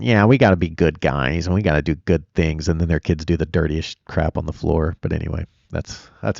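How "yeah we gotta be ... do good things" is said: lightly mocking impression of a preachy coach; mock scrunched-face coach. Streamer mocking a rival coach's good-guy talk, mildly sneering. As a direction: put on a sanctimonious coach, drawing out the words. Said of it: "his face all scrunched up going".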